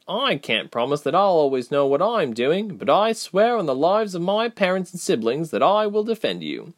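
high, solemn pledge; serious. A narrator's reading. Reshma vowing to defend Ilse, serious. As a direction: swear it with full conviction. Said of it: "You sound serious enough".

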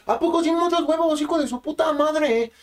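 high, slow taunting thug voice; mock thug taunt. Narrator voicing the biker insulting him, high taunting. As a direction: sneer it like a street tough. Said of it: "me dijo".

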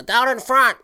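crowd yelling. Retold or imitated. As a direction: bark it like a fan stuck in the seat behind. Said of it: "sound like people at Lambeau Field telling you".

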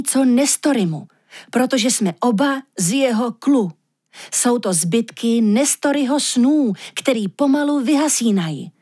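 lehce vyšší, naléhavý hlas soba, který vysvětluje; mírně naléhavý sob, vyprávěj o snech; sob Aurinko. Acted. (sob naléhavě vysvětluje lišce, co se mu zdálo, lehce vyšším hlasem)

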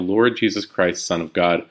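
slow, reverent, falling at the end; slow prayer on the inhale. Shown as a demonstration. Teacher demonstrating the inhale, slow and reverent. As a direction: draw the words out as you breathe in. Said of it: "So as we inhale".

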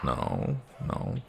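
lightly voiced policeman questioning a caller; put-on policeman voice, a touch hesitant; policeman role. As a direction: question her like a doubting policeman. Game master plays the policeman.

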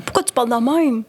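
a hint of kindergarten little gentleman; kids like little men. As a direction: imitate little kids talking like old men. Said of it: "ils parlaient comme des petits messieurs".

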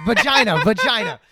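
loud, high imitated yell; hammed-up shouted insult; mock screaming. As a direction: scream it like an irate dad. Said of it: "I thought Dad was just screaming".

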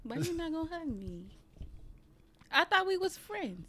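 high, whiny playful plea for a hug; mock pleading. Asking her co-host why he won't hug her, high mock whine. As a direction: pout and beg like a hurt kid.

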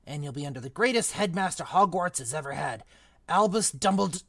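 rough half-giant gamekeeper, proud of his headmaster; Hagrid voice. Acted. Reader voicing Hagrid.

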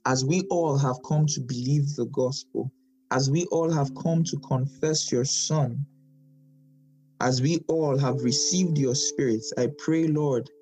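measured prayer with pauses between phrases; closing prayer. Real, not acted. Preacher thanking God after the Bible study, praying. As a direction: pray sincerely, one petition at a time.

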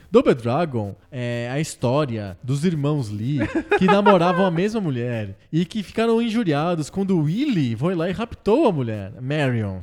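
grand storyteller voice, laughing through; laughing mock synopsis. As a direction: spin it like a silly epic, chuckling. Mock dramatic game synopsis.

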